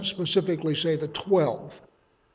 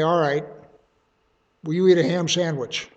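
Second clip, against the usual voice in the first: accusatory tone. Retold or imitated. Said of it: "sort of an accusatory tone".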